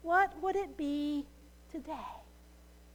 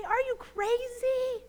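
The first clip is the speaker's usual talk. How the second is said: exasperated rescuer; 4 semitones higher, 3 dB louder than usual. Retold or imitated. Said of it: "throw up your hands and say".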